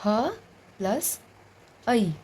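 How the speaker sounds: "ह" plus "ऐ" said apart with pauses; sounds one by one. Shown as a demonstration. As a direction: split "है" into ह and ऐ. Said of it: "है को कैसे तोड़ते हैं". (वर्ण अलग करके बोलना)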